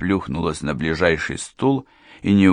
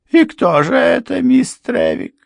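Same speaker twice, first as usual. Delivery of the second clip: much higher, louder, sharp question; housekeeper's challenge; 6 dB louder than usual. A narrator's reading. Housekeeper demanding a name from Miss Trevick, high and sharp. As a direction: toss the question back defiantly. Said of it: "housekeeper challenges Derrika".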